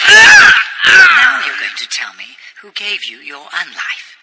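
loud, slow, threatening; slow menacing shout. Acted. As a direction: drag out every word in threat. Menacing interrogation demand.

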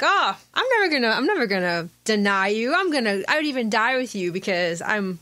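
a hint of a pompous Peter; mock pretentious boast. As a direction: play him as a light, smug show-off. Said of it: "Peter's being a little pretentious".

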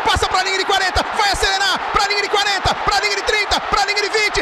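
rising shout, yard by yard; touchdown call. Real, not acted. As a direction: build the call to a roaring finish. Return run for a touchdown.

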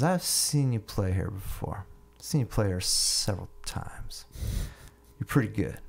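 lightly voiced drunk buddy, words drawn out slowly; tipsy man. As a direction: imitate a tipsy man, slow and deliberate. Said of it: "two and a half sheets to the wind".

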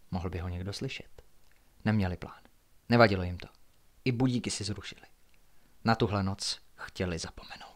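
measured, hushed suspense reading; low-key storyteller with deliberate pauses; story narration. A narrator's reading. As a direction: read a mystery aloud at night. Narrates a night-time story.

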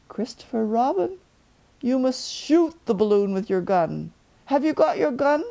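high, light bear voice up in the sky; a cheerful little bear calling down; Pooh Bear. Acted. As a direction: Pooh calling down from his balloon.

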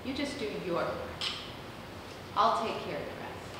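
low, soft comforting words; retold calm promise, softly spoken; gentle reassurance. God's reassurance to the burdened speaker.

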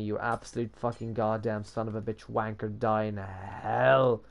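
low, restrained string of swearing, slowing at the end; seething curse. Real, not acted. Cursing the model that went wrong, seething. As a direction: curse it under control, stretching the last words.

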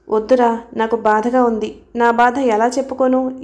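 ordinary delivery

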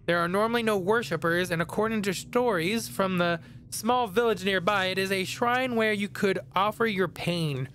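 measured read-aloud narration; reading game text. A narrator's reading. Player reading a researcher's notes aloud, narration. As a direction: read it out like a storybook.

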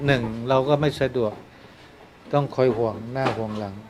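soft heartfelt preaching; quiet earnest sermon. Acted.

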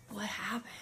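very soft, dazed question; groggy coming-to. Retold or imitated. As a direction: murmur it as if just waking up. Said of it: "she's rubbing her head".

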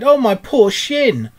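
high, drawn-out wail of pain; pained cry. A narrator's reading. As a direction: cry out loudly, nursing a hurt. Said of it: "he cried".

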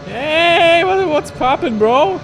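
high, loud hyped bro voice; gym bro. Pretend. Streamer's put-on English bro voice.

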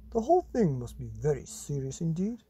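put-on lively read-aloud voice for children; storybook reading. A narrator's reading. Reading a monster picture book to children, animated. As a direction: tell it like a bedtime story to kids.

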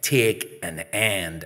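slow, spaced-out command; insistent repeated order. Acted. Girl repeating her order to a boy who refused, insistent. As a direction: spell the order out slowly. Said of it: "I said".

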